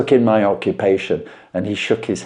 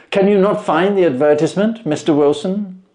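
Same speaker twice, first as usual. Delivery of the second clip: measured, knowing detective voice; Holmes voiced; 14 semitones higher, 7 dB louder than usual. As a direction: lay out the deductions with calm assurance.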